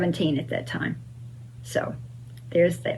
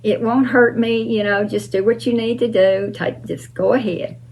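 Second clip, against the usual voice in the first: higher, gentle reassuring voice; soothing, calm; 4 semitones higher than usual. Retold or imitated. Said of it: "very soothing and very calm".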